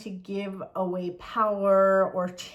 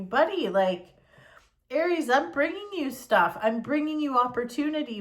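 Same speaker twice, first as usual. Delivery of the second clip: universe talking; 4 semitones higher than usual. Pretend. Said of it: "the universe is saying to you".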